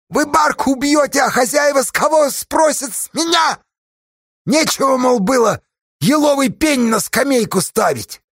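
shrill up in the head, shouting at him; тонким голосом, громко; loud thin voice. A narrator's reading. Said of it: "Совсем тонким голосом громко спросил".

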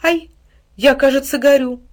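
put-on a girl's startled shout of pain; startled cry. A narrator's reading. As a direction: cry out as the flame catches you. Girl burned by the fire.

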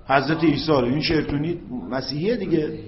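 normal talking voice

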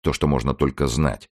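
ordinary delivery

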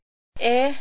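startled as she comes to; surprised exclamation. A narrator's reading. Waking woman exclaims on seeing everyone, surprised. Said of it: "หล่อนอุทาน".

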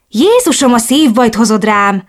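high, loud startled cry; startled shriek. Acted. Ellen startled when Chris suddenly appears, high startled cry. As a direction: jump out of your skin mid-sentence. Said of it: "sikoltott fel".

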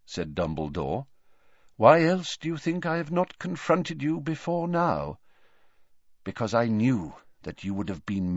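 put-on calm the boy down; kindly old wizard, unhurried; gentle old headmaster. Dumbledore soft reply.

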